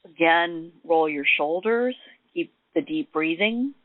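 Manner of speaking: unhurried meditation guide with long pauses; gently walk them through it, leaving room to breathe; guided meditation. Acted.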